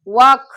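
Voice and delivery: walk said loudly as "waak"; silent L. Shown as a demonstration. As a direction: leave the L out of walk. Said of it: "W A ಎಲ್ K". (walk ಪದದಲ್ಲಿ "ಎಲ್" ಇಲ್ಲದೆ "ವಾಕ್")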